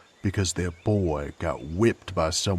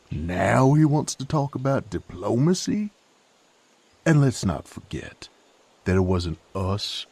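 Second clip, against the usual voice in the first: heated retort; 4 dB louder than usual. Acted. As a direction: push back hard, mocking his father's change of heart. Heated argument with young lord.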